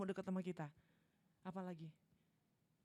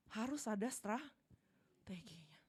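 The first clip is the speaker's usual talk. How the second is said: hushed; much slower than usual. Real, not acted.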